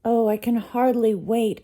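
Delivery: high, loud and eager; bubbling over with excitement; excited exclaim. A narrator's reading. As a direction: burst out with delight. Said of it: "Ariel exclaimed".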